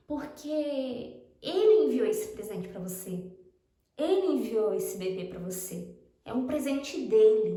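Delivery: slow, deliberate relaying of a message; solemn message. Retold or imitated. Friend passing on God's word about the baby, slowly and solemnly. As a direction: weigh each phrase slowly, as a message from God.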